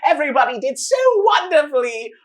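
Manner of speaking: grand announcer. Acted. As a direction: boom it out to the whole arena. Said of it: "The announcer walks out and he goes".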